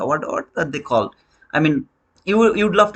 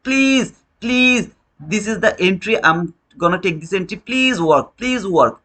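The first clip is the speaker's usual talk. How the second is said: mock begging; 2 semitones higher, slower than usual. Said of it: "We beg the market".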